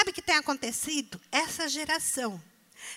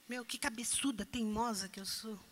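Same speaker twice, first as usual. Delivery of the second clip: self-rebuke; 5 semitones lower, 10 dB quieter than usual. Retold or imitated. Parent realizing own fault.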